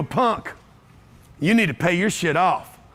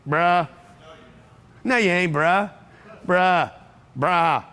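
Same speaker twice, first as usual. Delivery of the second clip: doubting relatives; 2 semitones lower, slower than usual. Retold or imitated. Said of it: "they're gonna say".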